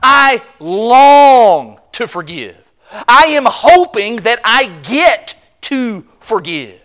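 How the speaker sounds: slow, earnest plea of a willing heart; eager to forgive. Acted. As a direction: say it slowly, longing to forgive. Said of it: "the attitude that says".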